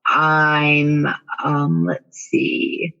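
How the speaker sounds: drawn-out mock pondering, then listing it off; mildly facetious retold reply. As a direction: play dumb with a slow, facetious answer. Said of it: "I got even more facetious".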